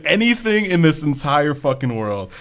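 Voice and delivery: words bubbling with laughter; laughing. Real, not acted. Laughing while describing Noctis.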